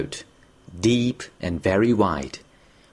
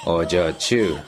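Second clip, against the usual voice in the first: pleading; 6 semitones lower, slower than usual. Acted. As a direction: plead with her by name.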